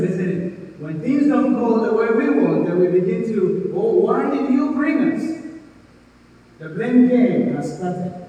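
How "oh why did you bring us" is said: high, loud mock grumbling; mock complaint. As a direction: blame someone in a raised, complaining voice. Mimicking blame when things go wrong.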